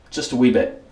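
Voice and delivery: mock British accent, lightly put on; a quick jokey British "wee bit"; pathetic British accent. Shaving reviewer jokes in a lame British accent. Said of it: "my pathetic British accent".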